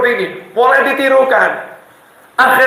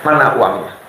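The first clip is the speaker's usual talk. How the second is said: nagging wife; 8 semitones lower, faster than usual. Retold or imitated. Wife's complaint voiced in story.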